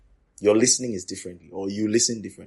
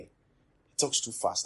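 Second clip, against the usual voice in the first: slow complaint; 2 semitones higher, 6 dB quieter, much slower than usual. Retold or imitated. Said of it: "you say".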